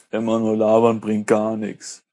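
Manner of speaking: a light rasp on every word; raspy voice. Shown as a demonstration. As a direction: roughen the voice a little. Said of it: "Das wäre jetzt meine raue Stimme".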